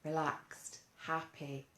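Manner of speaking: soft, easy, let the tension go; relaxed and happy. Shown as a demonstration. Teacher showing kids a relaxed, happy voice. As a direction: breathe out into calm. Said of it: "Feels better, doesn't it?".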